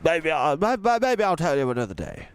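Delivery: put-on kindly old tramp voice, stammering and quick; hesitant old tramp. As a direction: falter as the shy old tramp. Mister Stink hesitates.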